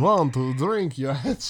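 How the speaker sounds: vampire impression. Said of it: "That's a good vampire impression".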